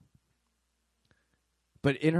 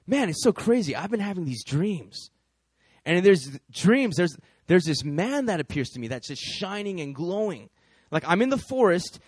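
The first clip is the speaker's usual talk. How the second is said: eager dream story; 3 semitones higher, 5 dB louder than usual. Retold or imitated. Guy describing his dreams excitedly.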